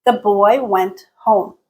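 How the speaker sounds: marked pitch dip on "home"; falling intonation. Shown as a demonstration. Teacher demonstrating the end of an utterance, dipping on "home". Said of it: "there's a very marked dip".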